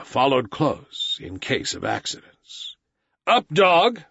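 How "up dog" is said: sharp commanding call, a bit louder; boy's cry. A narrator's reading. A boy's sharp raised cry. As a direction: Mowgli orders the tiger to rise. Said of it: "Mowgli cried".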